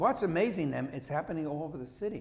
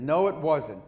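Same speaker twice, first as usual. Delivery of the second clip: gruff; 7 dB louder, slower than usual. Retold or imitated. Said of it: "I never heard him use a gruff voice".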